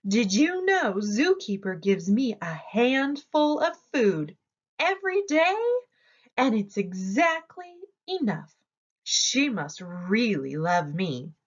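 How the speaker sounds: boastful, proud voice for Hare; a light touch of bragging, pitch jumping up on every day. Acted. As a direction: brag about your handful of food. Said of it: "Hare bragged".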